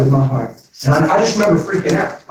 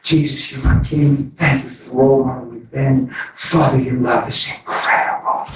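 tender prayer. Shown as a demonstration. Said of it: "Talk to him every day and say".

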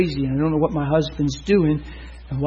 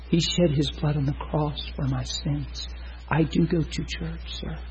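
softer, slow and drained, like a sedated woman; a sedated woman quietly answering the preacher; talking real sedate; 7 dB quieter than usual. Retold or imitated. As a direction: hush it out, slow and dulled. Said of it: "She's talking real sedate".

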